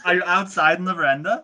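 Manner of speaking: exaggerated English phone voice; put-on English accent. Looking for a friend on the phone, English accent. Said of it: "talk in your English voice".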